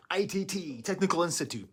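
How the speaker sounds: high, bright 80s commercial voice; retro ad announcer. Retold or imitated. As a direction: sell it like an old TV ad.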